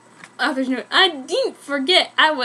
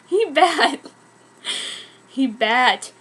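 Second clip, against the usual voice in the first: killer voice; slower than usual. Acted. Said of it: "in his fucking killer voice".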